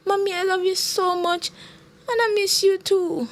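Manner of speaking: put-on high-pitched child voice, leaning on the words; emphatic child. A narrator's reading. Child telling her mother she misses her, emphatic. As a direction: declare love like a little girl, with emphasis. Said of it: "the child said with emphasis".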